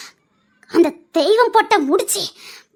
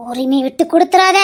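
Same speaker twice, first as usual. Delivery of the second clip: firm command; 3 semitones lower, 4 dB louder than usual. Acted. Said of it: "சொல்றதா".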